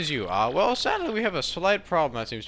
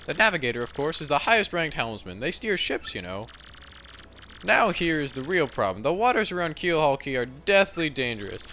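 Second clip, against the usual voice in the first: lightly voiced grand captain, lively and raised; a hint of a pompous captain; theatrical ship captain; 3 semitones higher than usual. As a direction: explain it like a self-important seafarer. Reads captain's game dialogue.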